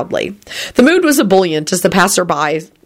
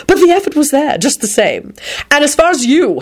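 threatening; 9 semitones higher than usual. A narrator's reading. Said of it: "he added threateningly".

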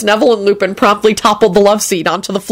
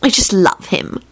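higher-pitched, adoring gush; acted lovesick sighing; sighing fondness; 7 semitones higher than usual. A narrator's reading. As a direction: gush helplessly over them. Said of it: "Elizabeth sighed".

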